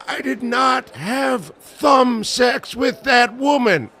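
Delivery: high, slow mock Clinton denial shouted; Bill Clinton impression.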